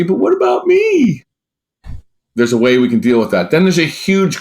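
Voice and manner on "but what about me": mock whiny complaint. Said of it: "They're the ones that say".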